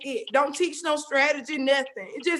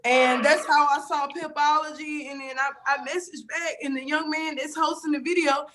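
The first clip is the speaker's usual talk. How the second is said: tearful. Real, not acted. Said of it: "I literally been sitting here crying".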